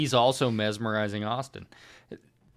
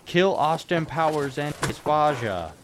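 lightly voiced higher villain; a hint of a Dutch villain; Goldmember impression; 4 semitones higher than usual. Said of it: "he's like".

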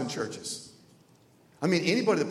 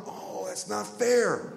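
drawn-out, higher 'oh, that's not fair'; mock protest; 5 semitones higher, slower than usual. Young man protesting to God, in mock protest. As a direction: complain like a wronged kid. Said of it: "So then I thought".

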